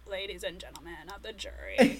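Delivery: millennial vocal fry. Retold or imitated. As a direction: creak through it like a millennial lawyer. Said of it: "this perfect vocal fry".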